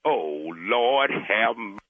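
slow, low, drawn-out gasp of relief; stunned relief. Real, not acted. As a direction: let it sink in with a long sigh. Caller learns it was a prank.

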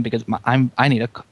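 sore cracking throat. Real, not acted. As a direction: voice cracking, needs a cough drop. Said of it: "my throat is cracking".

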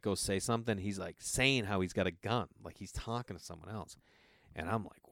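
ordinary talk, nothing marked

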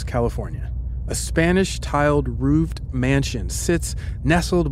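story narration. Acted. Host guides co-host into an imagined scene, measured story narration. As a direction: set the scene as for someone with eyes closed. Tells a second-person scene.

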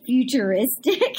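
drawn-out word with rising end; amused mock-grand delivery; mocking imitation. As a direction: stretch it out in mock wonder, laughing. Mocked quote that cracks both up.

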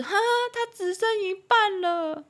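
glum negative take. Retold or imitated. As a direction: sound let down by the half glass. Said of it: "我们的意思就是".

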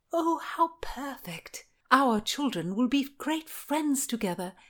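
high-pitched happy gushing; joyful delight. A narrator's reading. Margaret welcomes Anne's news of a child, delighted. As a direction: gush with delight, pitch lifted.

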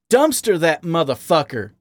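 angry barroom growl. A narrator's reading. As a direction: growl it with disgust. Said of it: "Wally growled".

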